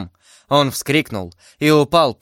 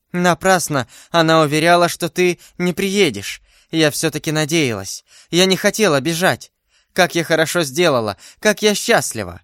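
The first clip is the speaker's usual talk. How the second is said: lightly voiced happy heroine, lifted pitch; a touch of breathless delight at the reunion; happy relief; 4 semitones higher than usual. Heroine telling her beloved she kept hoping, mildly elated.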